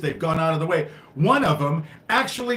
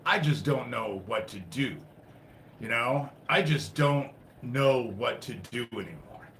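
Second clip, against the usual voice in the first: defeated despair; 4 semitones lower, 7 dB quieter than usual. Real, not acted. Despairing after frustration.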